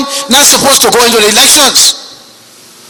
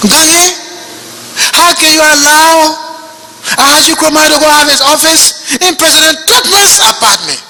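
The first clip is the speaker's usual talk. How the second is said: retold complaining woman; 5 semitones higher than usual. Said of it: "The woman came to my office crying".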